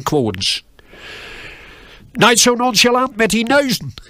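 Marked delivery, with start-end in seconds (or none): 2.1-3.9 boss yelling. Retold or imitated. Angry boss yells at young packer over one nose. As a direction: bark it at the clumsy new packer. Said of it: "riep bij een tegen mij".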